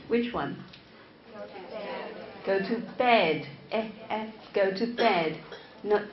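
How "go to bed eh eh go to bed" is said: "bed" with a short, clear "eh"; vowel in BED. Shown as a demonstration. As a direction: go to bed, drawing out the "eh" in "bed". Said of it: "for example, bed or bad".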